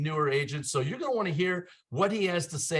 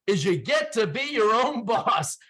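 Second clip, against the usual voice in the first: laughing punchline; 5 semitones higher, slower than usual. Real, not acted. Ironic punchline about being own boss.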